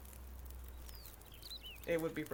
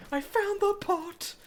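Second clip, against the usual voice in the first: higher, slow triumphant call; excited shout; 6 dB louder, slower than usual. Real, not acted. Finding a pot in game, triumphant. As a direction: announce the find proudly.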